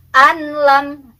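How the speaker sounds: "anlam" with a clear N before the L; wrong izhar reading. Shown as a demonstration. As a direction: pronounce "anlam" unmerged, N fully sounded. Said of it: "itu izhar, salah".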